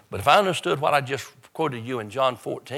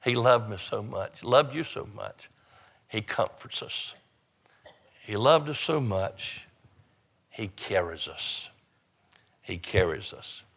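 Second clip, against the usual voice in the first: tender preaching; slower than usual. Acted. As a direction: let it settle gently on the congregation.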